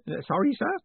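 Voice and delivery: put-on high, fussy old postman, proud of his takings; an eager old clerk showing off coins; old man proudly reporting to his boss; proud old Grote. A narrator's reading. Grote puzzled.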